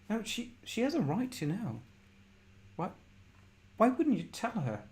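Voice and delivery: high, indignant protest; acted arguing mother. Mother arguing with father over telling her, indignant.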